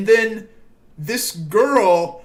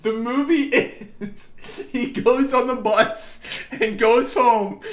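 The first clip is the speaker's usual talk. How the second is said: laughing; 4 semitones higher, slower than usual. Real, not acted. Still laughing while telling.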